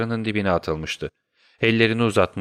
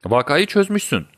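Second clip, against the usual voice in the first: a lightly raised eager exclamation; higher, excited cry of realisation; exclaiming; 7 semitones higher than usual. A narrator's reading. Watson exclaims to Holmes, mildly excited. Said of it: "diye haykırdım".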